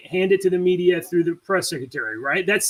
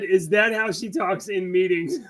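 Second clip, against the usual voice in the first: laughing quote. Retold or imitated. Quoting reporter's question while laughing.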